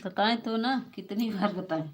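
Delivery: fed-up complaint to the chat; exasperated. Real, not acted. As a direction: snap back in mock frustration.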